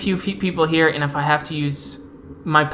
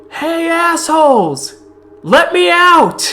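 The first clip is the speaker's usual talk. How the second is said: much higher, furious yell from a cell; angry shout; 14 semitones higher, 9 dB louder, slower than usual. Acted. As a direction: scream at the guards to be let out. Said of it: "a familiar voice going".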